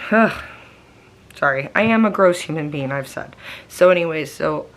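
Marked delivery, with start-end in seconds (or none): 0.1-0.4 burp with a groan. Real, not acted. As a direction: burp and grunt. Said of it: "excuse me, I'm burping".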